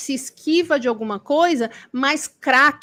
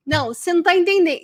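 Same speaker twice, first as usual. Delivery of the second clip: quick, slightly raised mock protest; insistent correction; 4 semitones higher, much faster than usual. People in the inbox re-explaining to the speaker, insistent. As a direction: cut in briskly to correct.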